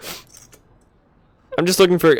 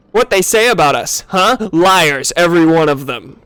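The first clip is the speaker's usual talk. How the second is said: gamorrean insult; 2 semitones higher, 3 dB louder than usual. Acted. Voicing defensive hunters.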